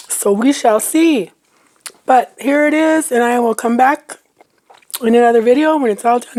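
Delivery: talking while chewing; words round a bite of food; mouth full. Real, not acted. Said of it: "sorry I'm chewing".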